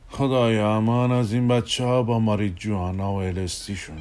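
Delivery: sighing exasperation. Acted. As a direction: sigh it out to yourself, resigned. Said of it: "آهی کشید و فکر کرد".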